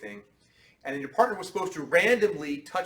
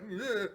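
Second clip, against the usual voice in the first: scared flinch grunt; 6 semitones higher, 5 dB quieter than usual. Shown as a demonstration. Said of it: "you're like".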